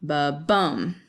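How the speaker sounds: "ba" light, "bum" stressed; a heartbeat beat, "ba" unstressed and "bum" stressed; iambic ba-bum. Shown as a demonstration. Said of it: "makes this noise like ba-bum".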